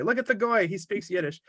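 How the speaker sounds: a hint of a proud old lady showing off the guest; marveling grandma. Grandma shows off the token goy, mock delighted.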